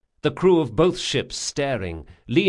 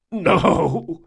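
high, tearful no; sobbing; 6 semitones higher, 4 dB louder than usual. A narrator's reading. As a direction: refuse through sobs. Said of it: "sobbed Jean".

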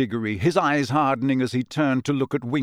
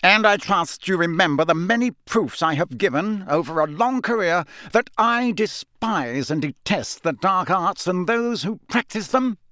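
shouted; 6 semitones higher, 3 dB louder than usual. Acted. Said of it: "Mister Crouch shouted".

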